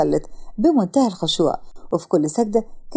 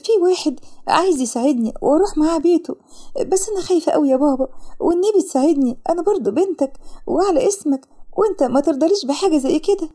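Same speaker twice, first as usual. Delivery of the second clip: put-on high-pitched anxious young woman; frightened daughter pleading; 6 semitones higher than usual. A narrator's reading. Frightened daughter begging her father for help, pleading. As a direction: beg in a higher, fearful voice.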